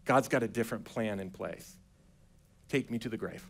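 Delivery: low, soft, measured reply; unhurried quiet assurance, with pauses; calm Jesus. Acted. Jesus answering the grieving sister on the road, calm. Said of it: "And Jesus is like".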